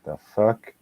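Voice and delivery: baffled, rising "the fuck"; incredulous. Retold or imitated. Washed-up brother staring at the lamb child, baffled. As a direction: play the bewildered brother. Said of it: "the whole time he's just like".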